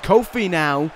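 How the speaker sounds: brisk ringside play-by-play; wrestling commentator. Acted. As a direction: call the match like TV commentary.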